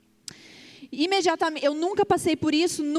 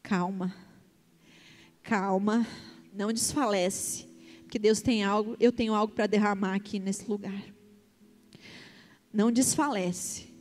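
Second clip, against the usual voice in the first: God calming her before she has to preach, low and tender; calm reassuring voice; 7 semitones lower, 4 dB quieter than usual. Retold or imitated. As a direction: speak gently, as if calming a frightened child. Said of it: "E Deus falando pra mim".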